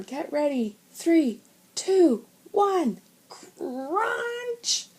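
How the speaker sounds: high, loud rising countdown; urgent countdown. A narrator's reading. Big brother counts down before the ice hits, urgent. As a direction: count down to impact.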